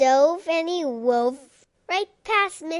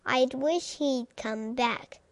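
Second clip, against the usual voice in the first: sniffled; 5 dB quieter than usual. Acted. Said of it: "sniffled Missus McNosh".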